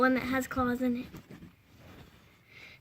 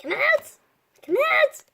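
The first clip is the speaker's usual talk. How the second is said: coaxing call; 10 semitones higher than usual. Acted. Coaxing cat out.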